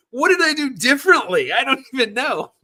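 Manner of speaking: high, baffled self-quote; mock bewilderment at getting it right. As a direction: sound lost about what changed. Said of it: "And I'd be like".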